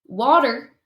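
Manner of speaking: "water" with a Southern drawl on the vowel; a lightly drawled Southern "water". Shown as a demonstration. Showing how the South says it, Southern "water". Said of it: "that's how we do it in the South".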